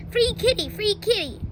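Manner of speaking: calling out. Retold or imitated. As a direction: hawk it to passers-by. Calling out on sidewalk.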